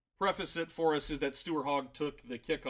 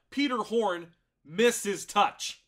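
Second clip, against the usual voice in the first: dramatic; 4 semitones higher, 5 dB louder, much slower than usual. Real, not acted. Dramatic match recap.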